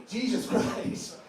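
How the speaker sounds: slow whispered despair; a slow, defeated whisper under the breath; exasperated whisper. Real, not acted. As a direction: breathe it out, slow and voiceless, fed up. Despair at fence vote.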